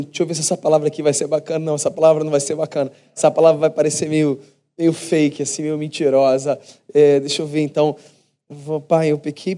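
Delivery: fast, low-key muttered thinking aloud; quick inner rehearsal. Retold or imitated. Son rehearsing his apology, fast and half to himself. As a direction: rattle through the word choices like thinking to yourself. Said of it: "pensando assim".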